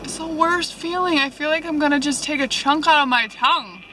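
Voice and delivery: numb mouth after a filling; numb from the dentist. Real, not acted. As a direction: talk through a numb mouth. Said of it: "So I'll be numb for a while".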